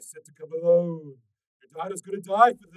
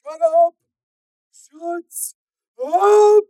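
very high, loud outburst; furious; 24 dB louder, much slower than usual. A narrator's reading. Stalker silencing Steel, high and furious. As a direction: cut him off angrily.

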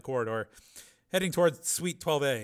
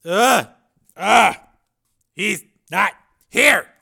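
high, loud, gasping pain; wounded man in pain; 9 semitones higher, 16 dB louder, much slower than usual. Acted. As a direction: cry out through the agony.

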